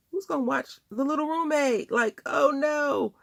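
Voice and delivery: high, loud panicked cry; sudden panic over who watches the baby. Retold or imitated. Panicked about son's care.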